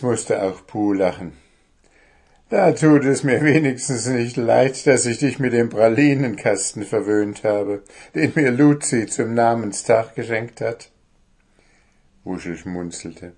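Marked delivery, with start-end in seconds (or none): 2.5-10.9 louder, lightly voiced gnome; light gnome voice, amused. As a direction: answer with a grin. Gnome laughs back.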